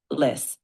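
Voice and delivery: Lis on its own, as the stressed syllable; isolated stressed syllable. Shown as a demonstration. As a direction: model just the syllable Lis. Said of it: "Keep emphasizing that second syllable".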